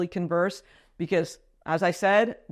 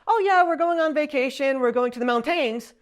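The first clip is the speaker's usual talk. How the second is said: imitated French accent, pitched higher; 6 semitones higher than usual. Imitating husband talking about vacation, French accent. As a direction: put on a French husband's English with end-stressed words. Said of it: "combined with the overall accent effect".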